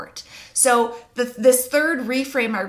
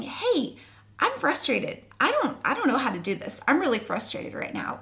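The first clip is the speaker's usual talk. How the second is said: lightly voiced baby's protest, pitched up at the start; mild mock frustration, speaking for the baby; frustrated baby; 4 semitones higher than usual. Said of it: "maybe they're saying".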